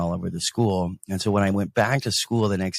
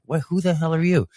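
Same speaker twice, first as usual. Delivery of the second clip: pitched-up, affronted retort; indignant comeback; 9 semitones higher, faster than usual. Retold or imitated. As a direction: retell a mildly indignant challenge. Retold comeback to rival.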